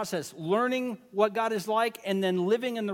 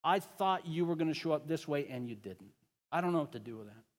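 honest lament; 2 semitones lower, 5 dB quieter than usual. Retold or imitated. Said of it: "That's what we see in the Psalms".

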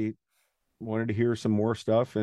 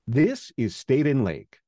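friendly train announcer; 4 semitones higher, 3 dB louder than usual. Retold or imitated. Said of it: "I basically just did an imitation of that guy's style".

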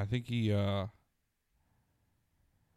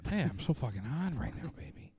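Mark Wahlberg impression; 4 dB quieter than usual. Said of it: "Mark Wahlberg's easy".

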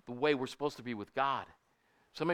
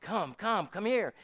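mildly raised beckoning call; higher-pitched imitation of a summons, not shouted; calling someone over; 5 semitones higher, slower than usual. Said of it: "God calls us".

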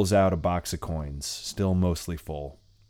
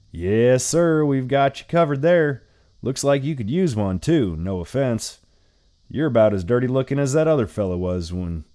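chirpy motel landlady, a bit louder; sweet and salty old lady; 3 semitones higher, 3 dB louder than usual. Acted. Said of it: "the sweet and salty old lady".

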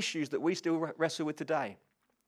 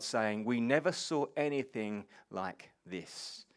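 scripture reading. Acted. Reads the Gospel passage aloud.

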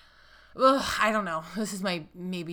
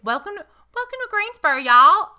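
Greensboro accent; 12 semitones higher, 12 dB louder than usual. Shown as a demonstration. Demonstrating the true Greensboro accent to a friend. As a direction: greet them like a true Greensboro local. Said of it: "the true Greensboro accent".

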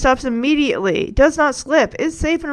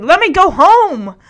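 mock angry; 5 semitones higher, 6 dB louder than usual. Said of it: "he's so frustratedly angry".

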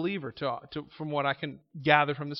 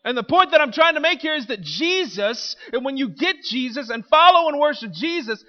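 louder, higher rousing sermon; fervent preaching; 8 semitones higher, 11 dB louder than usual. Acted. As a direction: lift the church with conviction. Preaching climax, shouts.

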